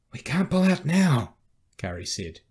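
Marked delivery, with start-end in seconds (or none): 0.1-1.4 high, loud, drawn-out protest; desperate appeal, pitched high; urgent pleading. Acted. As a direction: plead loudly, stretching the words. Carrie begs officer not to withdraw.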